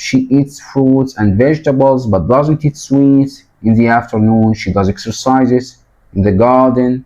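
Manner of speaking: slow, careful classroom reading of the passage; teacher reading the story text; reading aloud to class. Shown as a demonstration. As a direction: read each phrase slowly for learners.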